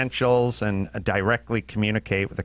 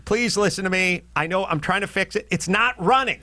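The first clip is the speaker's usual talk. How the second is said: pleading; 4 semitones higher than usual. Retold or imitated. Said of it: "And I'm saying".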